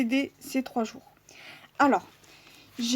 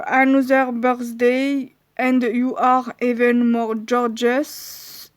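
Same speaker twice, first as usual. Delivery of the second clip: reading an English card phrase with a French accent; apologetic French-accented English; slower than usual. Real, not acted. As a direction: read the English slowly, French accent showing. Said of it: "Excusez-moi pour mon accent".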